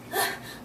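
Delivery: breathless sigh. Real, not acted. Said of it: "I'm out of breath here".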